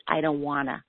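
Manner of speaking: put-on lightly whiny toddler; a hint of sulky child refusing; mild mock toddler whine. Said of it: "she really does whine and say".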